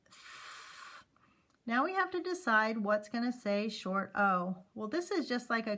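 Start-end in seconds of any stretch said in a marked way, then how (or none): 0.1-1.1 "th" breathed with no voice; unvoiced th. Shown as a demonstration. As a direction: hiss a voiceless th. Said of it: "this one is unvoiced".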